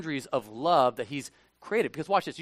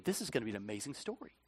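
excited inner thought; 8 semitones lower, 13 dB quieter, faster than usual. Retold or imitated. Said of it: "I was thinking".

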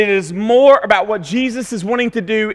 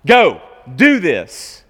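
put-on slow, louder order to a child; commanding parent; 5 dB louder, slower than usual. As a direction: tell them like a parent, no arguing. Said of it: "commanding them like you would your child".

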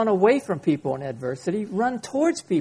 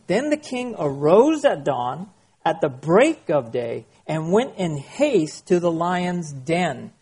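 slow, deliberate Bible reading; scripture reading; slower than usual. Acted. Preacher reading the Bible verse to the congregation, slow and solemn. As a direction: read the verse with weight.

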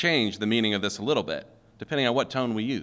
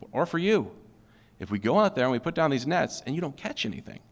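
gentle, higher heads-up to a friend; respectful warning; 4 semitones higher than usual. Pretend. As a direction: warn him kindly, looking out for him. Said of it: "I think that Peter is actually saying".

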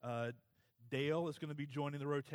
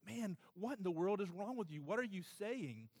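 higher, mildly exasperated disbelief; incredulous questioning, pitched up; bewildered challenge; 6 semitones higher than usual. Acted. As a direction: lightly act out a baffled friend confronting someone. Crowd confronts preacher in imagined scene.

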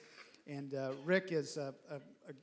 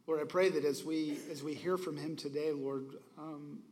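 steady, reverent pastoral prayer; earnest prayer. Real, not acted. Pastor praying for the guest preacher before he speaks, earnest prayer. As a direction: pray over him sincerely, like a pastor in church.

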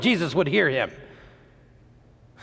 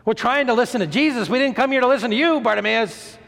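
annoyed; 5 semitones higher, faster than usual. Acted. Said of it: "a little annoyed".

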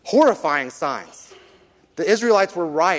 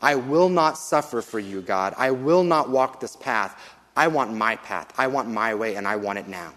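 selfish demand; 3 semitones lower than usual. Retold or imitated. Grumbling Israelites refusing to wait on God, lightly sulky. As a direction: voice a stubborn crowd that wants its way. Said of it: "This is an attitude of".

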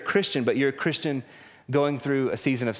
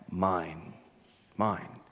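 hushed claim; 6 semitones lower, 7 dB quieter than usual. Retold or imitated. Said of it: "He says".

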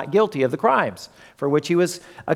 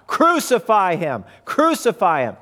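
crowd yelling; 3 semitones higher than usual. Acted. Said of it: "words being yelled by the crowd".

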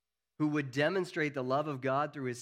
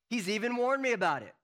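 loud, higher-pitched, fiercely determined; resolved Peter; 10 semitones higher, 5 dB louder, faster than usual. Retold or imitated. Preacher imagining himself as Peter, loud and resolved. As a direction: insist you'll never fail him.

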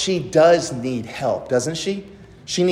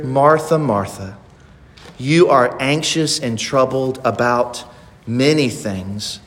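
tender endearment; 3 semitones lower than usual. Acted. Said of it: "this is a term of endearment".

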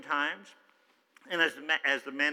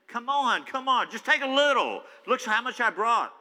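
higher, coaxing insistence; pleading Naaman; 8 semitones higher, 5 dB louder than usual. Acted. Naaman urging the prophet to take his gold, coaxing. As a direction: wheedle him into taking a little.

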